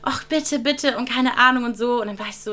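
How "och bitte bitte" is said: mock pleading. Freundin bettelt um Ausflug.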